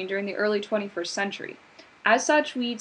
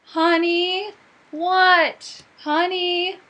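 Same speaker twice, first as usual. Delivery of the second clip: shouting back and forth; 7 semitones higher, 5 dB louder, much slower than usual. Acted. Spouses shouting across house.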